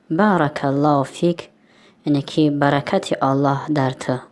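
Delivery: slow, deliberate phrase for learners; slow teaching voice. Shown as a demonstration. Tajik teacher explains the Arabic blessing to students, slowly. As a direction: lay out بارک الله فیک slowly. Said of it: "خوب".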